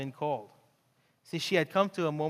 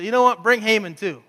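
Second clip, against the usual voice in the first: excited Esther; 5 semitones higher, 11 dB louder than usual. Retold or imitated. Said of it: "She goes".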